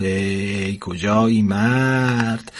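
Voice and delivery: very slow, drawn-out sigh of a complaint; sighing old wife. Acted. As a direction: stretch it out like a tired grumble. (گلایهٔ کشیده و خیلی آهسته)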